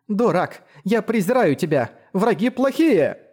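put-on a timid girl trying to sound fierce; clumsy mock shouting. A narrator's reading. Girl yelling at the straw dummy, clumsy mock anger. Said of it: "Ролония кричала на чучело".

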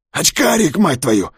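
high calling voice from the stairwell; distant call. Acted. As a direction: call out from far below. Calling, cursing.

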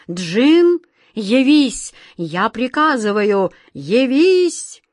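loud, high summons; commanding shout. A narrator's reading. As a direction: call him with full authority. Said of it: "снова крикнул".

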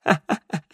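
echoing minstrel laugh; hearty laugh. Acted. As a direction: throw back your head laughing. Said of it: "его хохот отразился эхом".

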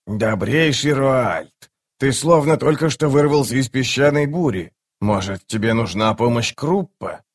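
a hint of an effusive little magician; lightly voiced florid fat wizard. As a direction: greet an old servant with mild theatrical fuss. Kruppe greets the old servant.

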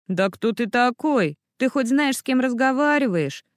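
a touch of a bristling vampire; hissing feral vampire. Acted. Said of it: "прошипел вампир".

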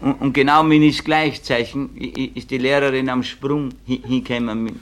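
normal talking voice

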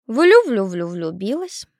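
slow, stuttered hen-cluck on the first syllable. A narrator's reading. Hen gossiping about the girl, clucking. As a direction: cluck the word out like a businesslike hen. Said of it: "деловито проклокотала первая пеструшка".

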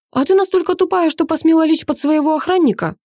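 very high, loud contemptuous jab; father insulting his daughter, high, loud and cutting; clenched jaw. A narrator's reading. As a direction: spit the insult through clenched teeth. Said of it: "стискивая челюсти".

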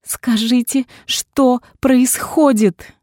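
high, slow, pleading question; desperate plea. A narrator's reading. Heroine desperately pleading with the doctor. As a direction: beg the doctor for the truth. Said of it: "отчаянно попросила я".

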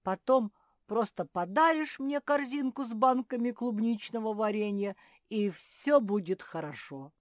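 excited little bear; cheerful bargaining. Acted. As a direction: propose it with gleeful enthusiasm. Bear cub cheerfully bargains for jam.

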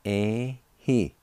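"eh, he" given as two distinct syllables; second part sounded out. Shown as a demonstration. Teacher modelling the second part for learners, carefully. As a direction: say "eh, he" as a clear model. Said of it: "Second part".

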